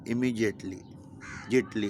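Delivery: "इमीडिएटली" with the D said as J, imijetli; "इमीडिएटली" spoken as imijetli though no J is spelt; J sound pronunciation. Shown as a demonstration. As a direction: stress the J in "जिटली". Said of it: "अब इसमें कहीं ज नहीं है".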